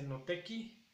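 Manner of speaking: "noteki" sin u final, con la i alargada; pronunciación de él. Shown as a demonstration. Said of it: "Él dice". ("noteki" sin la u, la i estirada)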